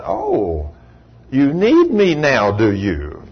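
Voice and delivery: slow, pointed mock question; acted wry comeback; knowing reproach. God's wry answer to desperate man.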